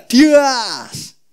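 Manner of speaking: high, sharp sword swish; mock swish of a sword; slash sound. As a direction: mimic the blade cutting. Sword slicing off the ear.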